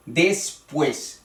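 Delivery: DESPUÉS in two separate syllables, des-PUÉS; careful teacher's syllable division of Después; split into syllables. Shown as a demonstration. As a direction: break Después into two beats, stressing pués. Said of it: "dos, eh, sílabas".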